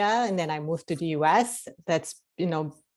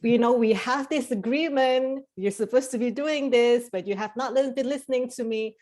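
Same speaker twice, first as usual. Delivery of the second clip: lightly voiced soul, higher, knocking and calling hello; 5 semitones higher than usual. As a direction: play the inner soul tapping on your door to remind you. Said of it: "your soul is finally like".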